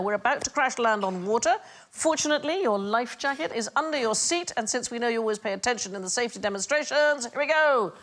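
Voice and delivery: bright, high cabin crew voice; chirpy safety demo announcement; flight attendant announcement. Acted. Host mimics flight attendant announcement.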